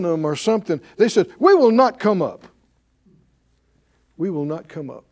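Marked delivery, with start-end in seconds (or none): 1.4-2.5 loud, defiant refusal. Retold or imitated. Rebels shouting their refusal at Moses, loud and defiant. 4.2-5.0 quiet echo. Retold or imitated. Preacher repeats the rebels' refusal.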